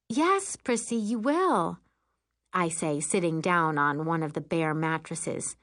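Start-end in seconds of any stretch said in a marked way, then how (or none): 0.1-1.8 high, sweet encouragement; reassuring older sister. Acted. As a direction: humor a little kid. Sister reassures small child.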